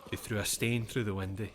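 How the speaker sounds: put-on Scottish words in an American accent; lightly mimicked American accent on Scots words. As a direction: imitate an American using Scots dialect. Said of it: "with just his normal accent".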